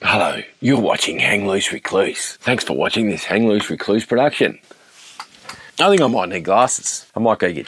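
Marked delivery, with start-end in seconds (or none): 0.0-4.6 announcer voice. Shown as a demonstration. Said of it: "That's how you do a voiceover".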